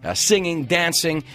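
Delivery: bright, upbeat show host; radio host announcement. Acted. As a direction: tease the next segment to the audience. Radio host pre-break announcement.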